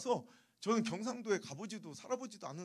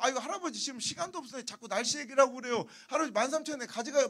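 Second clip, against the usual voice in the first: higher, hurried mock protest; impatient haggling customer; 3 semitones higher, 4 dB louder, faster than usual. Gyeongsang customer pressed for time haggling with grandpa, impatient. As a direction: press the old man impatiently. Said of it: "그걸 또 모르고".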